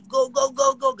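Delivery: high, loud rallying chant; mock cheering yell. Host imitating excited relatives' yel-yel, mock cheering yell. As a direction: whoop it up like a cheer squad. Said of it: "sampai teriak-teriak atau buat yel-yel".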